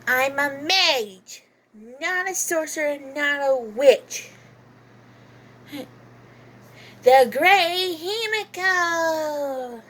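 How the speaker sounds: slow, lightly voiced sleepy mage girl; lightly voiced Himiko. A mage girl correcting anyone who calls her a witch. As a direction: drawl it out like a lazy little mage. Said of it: "whenever I'm doing Himiko".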